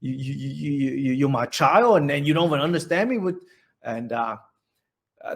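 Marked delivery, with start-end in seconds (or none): 0.0-3.4 mildly raised, a bit louder scolding; a hint of an upset mother's outburst; imitating mom's mild indignation; retold furious mom. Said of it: "she was furious".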